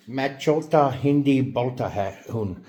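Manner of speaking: slow, careful Hindi phrase; trying out Hindi. Shown as a demonstration. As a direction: sound out the Hindi words slowly. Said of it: "let me see if I can do it".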